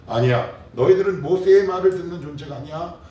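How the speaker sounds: high, loud, firm correction; voice of the Lord. Acted. The Lord correcting the disciples, loud and firm. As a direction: put your foot down for the disciples. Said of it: "라고 얘기합니다".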